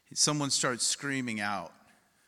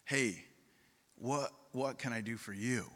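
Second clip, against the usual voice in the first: gentle offer; 2 semitones lower, 7 dB quieter than usual. Retold or imitated. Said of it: "And then he says".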